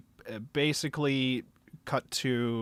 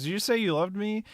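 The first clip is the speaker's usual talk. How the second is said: raised pitch, mock astonishment; incredulous question; 7 semitones higher than usual. Tamaki asking her as she runs away, incredulous. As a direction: imitate a stunned lover checking. Acting out confession scene again.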